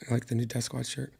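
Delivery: soft, easy delivery; quiet plug to save a hurting voice; talking softly to spare voice. Real, not acted. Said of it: "I'm just going to talk like this".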